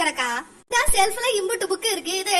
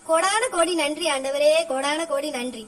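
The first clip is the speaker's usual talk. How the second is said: lower, slow, hammed-up gratitude to God; sarcastic prayer, drawn out; mock prayer of thanks; 5 semitones lower than usual. Mother mock-thanks God for the ban. (கேலியான நன்றி பிரார்த்தனை, தாழ்ந்த மெதுவான குரலில்)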